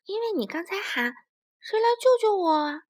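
smiling. Acted. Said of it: "薄片龙微笑着说".

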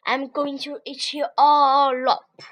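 storybook lion rumbling a threat; lion growl. Acted. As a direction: ham up a hungry lion's growl.

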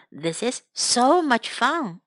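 careful teaching repetition; slow model repeat. Shown as a demonstration. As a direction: draw the phrase out for learners. Slower, lower repeat for learners.

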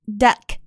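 "duck" with a short, punchy uh; short, forceful vowel. Shown as a demonstration. Teacher drills the short U, "duck" short and forceful. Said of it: "要发的短促有力".

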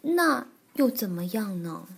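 mildly sheepish retort; a touch of awkwardness, subdued; embarrassed. Acted. Bengbeng is exposed before Granny Bear, mildly embarrassed. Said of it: "挺难为情地说".

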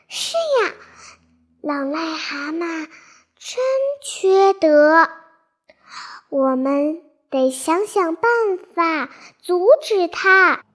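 lightly voiced angry fish; indignant fish voice.

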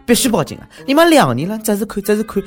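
high, loud exasperated cry; indignant outburst. Acted. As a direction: blow up in mock outrage. Indignant outburst on the woman's behalf.

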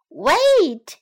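high, loud chick's cry; shout. A narrator's reading. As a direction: shout to halt the fox. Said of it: "shouted Pip".

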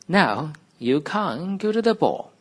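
joyful cry. Acted. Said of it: "she cried".

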